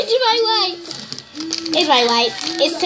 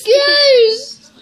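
disgusted shout; 7 semitones higher, much slower than usual. Real, not acted.

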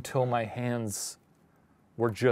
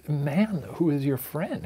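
high, breathless swoon into a whisper; hammed-up admiring gasp; smitten woman; 3 semitones higher than usual. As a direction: swoon at a handsome stranger. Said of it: "putting myself into her mind".

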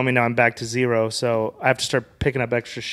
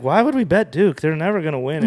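incredulous question; 4 semitones higher than usual. Retold or imitated. Questioning bet on bad team.

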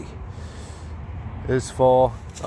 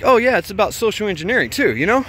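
excited clerk; 8 semitones higher, 4 dB louder than usual. Retold or imitated. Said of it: "And he's like".

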